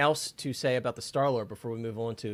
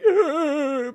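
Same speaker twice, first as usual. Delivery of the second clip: sobbing groan; 7 dB louder than usual. Retold or imitated. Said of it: "I wasn't like".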